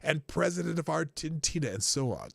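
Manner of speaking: put-on low, measured German accent. Host rereading Schwab on young leaders, low German accent. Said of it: "my best German accent".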